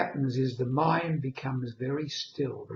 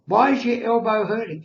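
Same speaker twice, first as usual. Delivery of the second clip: worried nurse; 8 semitones higher, 9 dB louder than usual. Retold or imitated. Nurse questioning in retold story.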